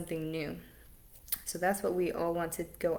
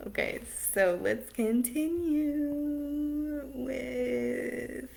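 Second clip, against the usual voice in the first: laughing; 7 semitones higher, much slower than usual. Real, not acted. Laughing after the interruption.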